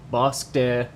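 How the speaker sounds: hammed-up French accent on Bosque de Montreal; jokey French accent while reading a place name; fake French accent. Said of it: "My fake French accent".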